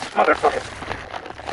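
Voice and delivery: slow breathy whispered swear; whispered curse. Real, not acted. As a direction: hiss the curse under breath. Dogs attack in game.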